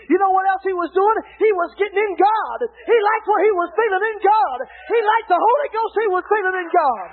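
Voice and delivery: preaching at full force. Acted. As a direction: drive it home to the pews. Preaching about old man enthused.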